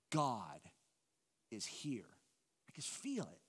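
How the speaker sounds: hushed, low, overwhelmed by wonder; awed reverence. Acted. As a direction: sink into a reverent near-whisper, slowly letting it out. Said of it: "You ever heard people talk like this".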